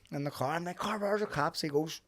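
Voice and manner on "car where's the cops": lightly voiced little kid, higher pitch; hint of a toddler's piping question; imitating a small child. Acting out his small son.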